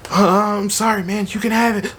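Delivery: high, strained apology on the verge of crying; scared, near tears. Retold or imitated. Caught thief apologizing to the owner, frightened and high. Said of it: "freaked out, like, about to cry".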